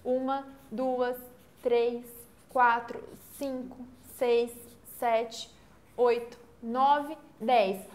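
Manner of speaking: contagem lenta, sílaba por sílaba; contando sílabas pausado. Shown as a demonstration. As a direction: conte cada sílaba devagar. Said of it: "Vamos contar quantas sílabas métricas". (contagem pausada das sílabas métricas)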